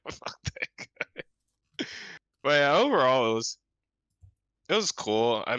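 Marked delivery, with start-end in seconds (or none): 0.1-1.8 whisper. Real, not acted. Echoing dismissal in a whisper.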